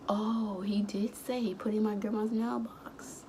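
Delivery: soft whispered realization; realizing whisper. Retold or imitated. She realizes Bob told the truth, whispered. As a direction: whisper it as it dawns on you.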